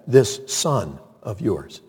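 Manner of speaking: a quiet, disdainful "This son of yours"; older son disowning his brother, slow and cold. Retold or imitated. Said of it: "the older brother said".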